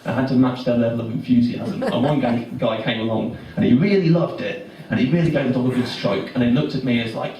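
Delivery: normal talking voice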